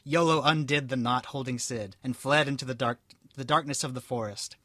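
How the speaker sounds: steady storybook reading voice; story narration. A narrator's reading. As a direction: read it out like a tale. Reads story aloud.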